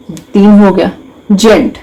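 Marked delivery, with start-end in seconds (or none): 1.3-1.8 "जेंट" said as one separate syllable; isolated syllable. Shown as a demonstration. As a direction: sound out "जेंट" on its own. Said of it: "intelligent में कितने syllable हैं".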